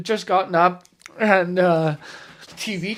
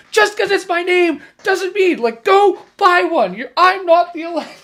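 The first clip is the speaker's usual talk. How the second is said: higher, fed-up mock protest; annoyed cousin Alexa; 10 semitones higher, 6 dB louder than usual. Cousin snapping at people yelling Alexa, higher and fed up. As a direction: play the girl sick of the Alexa jokes. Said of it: "and she's like".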